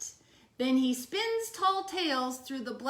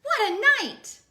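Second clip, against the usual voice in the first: mole voice; 10 semitones higher, 8 dB louder than usual. Acted. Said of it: "Mole mutters".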